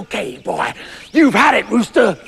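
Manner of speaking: threatening American farmer; put-on American tough-guy warning; dangerous American accent. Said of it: "sound all dangerous and American".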